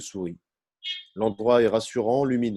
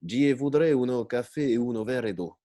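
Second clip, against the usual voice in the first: put-on fairground Italian accent. Old inspector ordering coffee, mock Italian accent. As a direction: ham up a funfair Italian, each syllable apart. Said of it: "avec un accent de foire et en détachant chaque".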